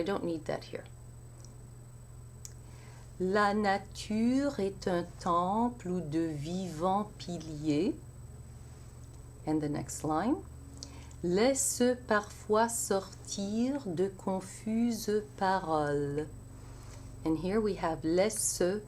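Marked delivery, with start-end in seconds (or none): 3.2-7.9 slow, measured French verse; French verse recitation. Shown as a demonstration. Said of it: "let's try the first line". 11.2-16.3 Laisse parfois with the ENT sounded as a syllable. Shown as a demonstration. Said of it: "pronunciation of the E N T".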